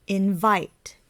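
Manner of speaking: "Invite" with soft in, strong long vite; soft then loud. Shown as a demonstration. Teacher demonstrating word stress, "Invite" soft on in and loud on vite. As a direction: lean on the second syllable of "Invite". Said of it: "soft and then loud".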